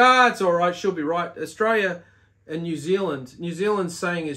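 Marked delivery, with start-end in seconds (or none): 0.0-1.3 wishy-washy shrug. Retold or imitated. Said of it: "getting wishy-washy".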